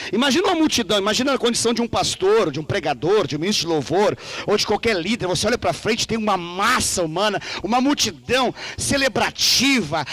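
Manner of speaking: normal talking voice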